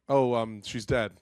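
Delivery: understated, deadpan delivery; completely straight. Retold or imitated. Teacher faking a bereavement to a student, played straight. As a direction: play it straight, as if mildly hurt. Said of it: "played it completely straight".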